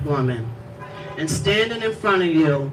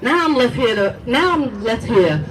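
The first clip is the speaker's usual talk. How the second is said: poem recitation. Acted. Mother reads poem to police, grieving recitation. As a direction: recite it like a lament.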